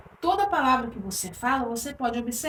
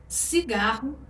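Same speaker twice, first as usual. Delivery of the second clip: cigarro com a sílaba do meio, GAR, mais forte; tônica em GAR; slower than usual. Shown as a demonstration. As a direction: diga cigarro marcando o GAR. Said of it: "a sílaba tônica aí no meio". (cigarro com força no GAR)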